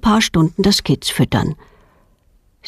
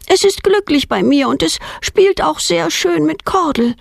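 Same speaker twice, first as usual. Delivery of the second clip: higher, lightly voiced defiant girl; stubborn little girl; 10 semitones higher than usual. A narrator's reading. Girl arguing with her father to keep the deer, higher pleading voice. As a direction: insist like a stubborn child. Girl's voice in story.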